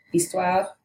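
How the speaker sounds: histoire said in French, ees-TWAHR; French pronunciation. Shown as a demonstration. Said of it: "in French and English".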